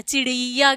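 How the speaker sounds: चिड़िया with a long "ree" in the middle; wrong long i. Shown as a demonstration. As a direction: stretch ड़ि in चिड़िया to "reee". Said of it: "चिड़िया गलत हो जाएगा".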